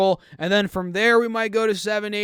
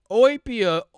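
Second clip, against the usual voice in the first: laughing stumble; 4 semitones higher than usual. Real, not acted. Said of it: "I can't even say that word".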